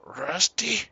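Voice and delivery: high, loud, playful hello; hammed-up excited greeting. Streamer greeting a viewer who turned up, hammed-up and excited. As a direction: sing out the name with mock excitement.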